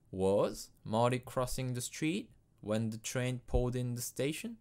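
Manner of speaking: "station?" rises high at the end; rising intonation. Shown as a demonstration. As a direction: lift the pitch up on "station?". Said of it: "on n'oublie pas l'intonation montante".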